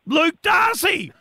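high, drawn-out mock announcement, then incredulous; big mock-shocked cry, easing into teasing disbelief; sarcastic amazement. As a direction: hail the news with hammed-up, sarcastic astonishment. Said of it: "detect a little bit of sarcasm in your voice".

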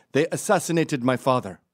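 imitated Polish accent, earnest request; Polish dude. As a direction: pester politely in a put-on Polish accent. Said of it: "some Polish dude kept following me".

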